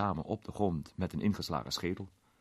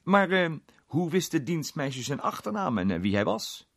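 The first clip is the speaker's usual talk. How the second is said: raised, louder public question; 11 semitones higher, 7 dB louder than usual. A narrator's reading. Redwood questioning the inspector about the maid, out loud. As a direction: speak up loudly, starting high, settling by the end. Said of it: "En toen hardop".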